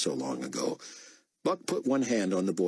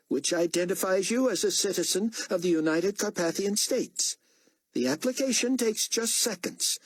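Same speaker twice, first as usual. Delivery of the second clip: stern officer. A narrator's reading. Officer briefing prisoners, cold and commanding. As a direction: read the rules like a cold guard.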